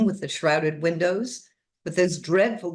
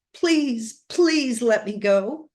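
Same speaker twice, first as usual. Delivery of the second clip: mildly desperate plea, pitched up; desperate entreaty; 6 semitones higher, 3 dB louder, slower than usual. A narrator's reading. Frightened girl begs the strange woman, mildly desperate. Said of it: "she entreated desperately".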